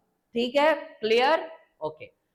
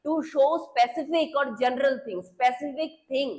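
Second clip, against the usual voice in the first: slow dictation; much slower than usual. Shown as a demonstration. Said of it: "article क्यों चाहिए".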